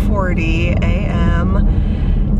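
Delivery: groggy early-morning morning voice; sleepy just-woke-up morning voice. Real, not acted. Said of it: "You can hear my morning voice".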